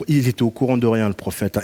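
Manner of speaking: normal talking voice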